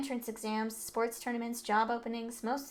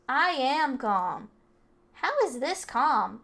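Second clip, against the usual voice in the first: loud, very slow shouted words; angry shouting; 3 semitones higher, 7 dB louder, much slower than usual. Acted. Delinquent told to calm down, slow angry shout. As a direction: shout that you're calm while clearly not.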